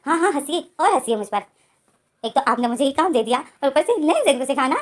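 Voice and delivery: lightly acted sulk, pitch climbing to an exasperated peak; sulky complaint. याओ मुंह फुलाए चाची से शिकायत. (हल्की नाराज़गी भरी शिकायत, आख़िर में ऊँची आवाज़)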